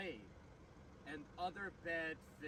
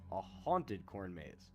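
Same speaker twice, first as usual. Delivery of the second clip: spooky dramatic slowdown; 8 semitones lower, much slower than usual. Acted. Spooky vlog narration build-up.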